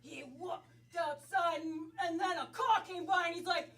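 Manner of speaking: narrating in a put-on New York accent; stage New York storyteller. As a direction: tell it like a New Yorker. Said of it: "New York".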